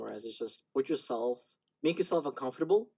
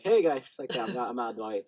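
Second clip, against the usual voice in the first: timid brush-off. Retold or imitated. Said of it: "do my silent self-defense".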